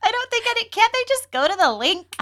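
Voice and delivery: high-pitched words squeezed out through real laughter; fighting through a fit of giggles; laughing hard. Real, not acted. Cohost apologizing to listeners while cracking up, laughing. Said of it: "I'm laughing so hard over here".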